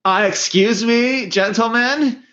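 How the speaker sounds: high, prissy complainer; offended office worker voice. Retold or imitated. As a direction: play a touchy office worker.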